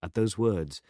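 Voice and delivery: plain reading voice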